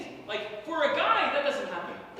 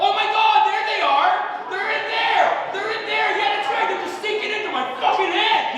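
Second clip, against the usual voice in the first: loud, high exclamations of disbelief; shocked discovery; 6 semitones higher, 8 dB louder than usual. Acted. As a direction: cry out in comic horror at the find. Acted shock at finding sunken eyebrows.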